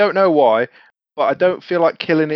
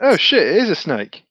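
higher, more animated mock surprise; played-up dismay; 4 semitones higher than usual. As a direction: redo the reaction with more alarm, tongue in cheek. Replays reaction after being teased.

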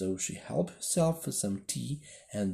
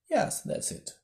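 breathy sighing reply. A narrator's reading. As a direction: sigh the words out. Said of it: "with a sigh".

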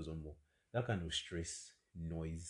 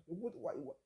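disbelief; 3 dB quieter, slower than usual. Real, not acted. Outraged disbelief.

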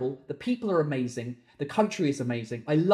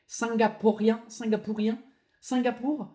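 higher, questioning French pronunciation; French accent; 6 semitones higher than usual. Shown as a demonstration. Trying French forms of the word.

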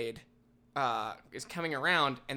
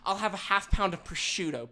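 higher entitled demand; mock pushy cutting in line; woman cutting in front of an old man at the deli, higher entitled voice; imitating a rude customer; 5 semitones higher than usual. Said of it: "throws her basket on the ground and says".

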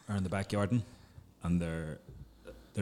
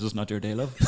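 punchline shout. Retold or imitated. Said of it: "and says".

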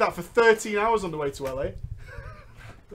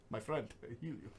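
put-on much lower, much softer Cuban accent; 11 semitones lower, 21 dB quieter than usual. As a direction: murmur it like a Cuban healer. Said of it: "I love that Cuban voice".

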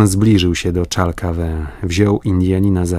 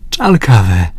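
mild shout; 3 semitones higher, 5 dB louder than usual. A narrator's reading. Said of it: "krzyknął Robert".

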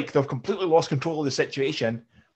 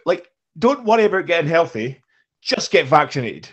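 louder, higher, slowed exasperated quote; mock-outraged recounting; mock exasperation; 5 semitones higher, 7 dB louder than usual. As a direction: spell it out like you can't believe it. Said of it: "he's just going".

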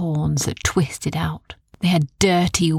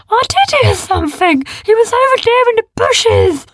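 loud, high insistent creature; insisting beast; 8 dB louder than usual. A narrator's reading. A beast insists to the others, loud and high. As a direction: stand your ground.

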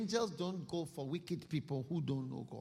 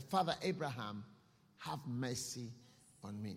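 pleading; 4 semitones lower than usual. Acted. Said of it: "he also cried and said".

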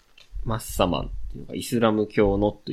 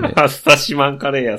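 laughing; 5 semitones higher, 6 dB louder than usual. Real, not acted. Joking over the wrong name.

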